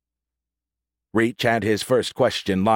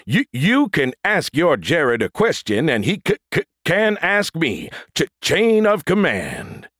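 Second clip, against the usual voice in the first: robot voice; 8 semitones higher, 3 dB louder than usual. A narrator's reading. Stuttering robot android voice.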